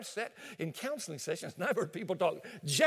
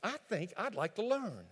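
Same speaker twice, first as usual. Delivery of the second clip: sweet wife; 2 semitones lower than usual. Acted. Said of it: "just walk over to him and say".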